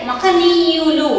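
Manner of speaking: a very slow, even మహనీయులు with no special stress; teacher models మహనీయులు at dictation pace. Shown as a demonstration. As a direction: read మహనీయులు slowly and evenly for the class. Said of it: "దానికి మన డు ఒక్కడే".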